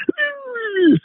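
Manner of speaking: high-pitched overreacting squeal; high mock whine. Host mimicking own overreaction to a calm room, mock whine. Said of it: "and I'm like".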